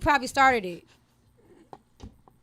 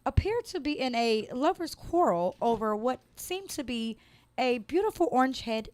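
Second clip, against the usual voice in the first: news anchor delivery; measured, formal news read; reporter voice. Acted. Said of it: "I wish I had my reporter voice".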